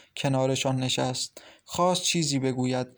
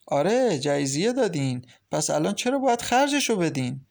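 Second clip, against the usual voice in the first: angry sister; 3 semitones higher than usual. Acted. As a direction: argue back at your mother, stung. Samira arguing with mother. (دختر عصبانی با صدای بلندتر و زیرتر)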